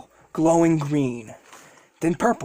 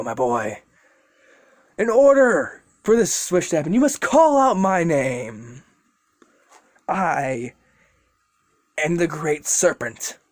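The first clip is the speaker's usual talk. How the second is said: grand serpent. Acted. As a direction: proclaim the name with weight. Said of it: "he's like".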